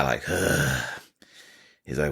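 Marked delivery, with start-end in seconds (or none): 0.3-0.8 exasperated sigh. Retold or imitated. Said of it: "He kinda lets out an exasperated sigh".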